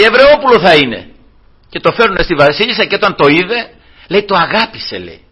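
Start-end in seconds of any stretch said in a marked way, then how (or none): 0.0-1.1 higher, knowing voice; princess guessing. Retold or imitated. The princess telling her maids the child is Hebrew, higher and knowing. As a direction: say it like a sudden realisation.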